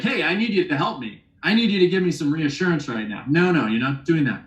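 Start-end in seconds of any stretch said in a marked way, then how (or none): 0.0-3.2 demanding. Shown as a demonstration. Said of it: "You're not leading like".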